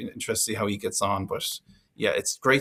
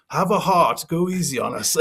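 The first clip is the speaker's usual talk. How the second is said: higher, half-laughing mock plea; 8 semitones higher, 4 dB louder than usual. Harlequins fan to a friendly Irish stranger, laughing plea. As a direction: beg for mercy while chuckling. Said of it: "And he's like".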